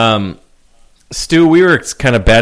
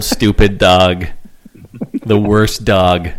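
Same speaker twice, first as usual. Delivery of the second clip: very slow, dragged-out scorn; slow mocking drawl; much slower than usual. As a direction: drag out each word mockingly. Slow mocking dog put-down.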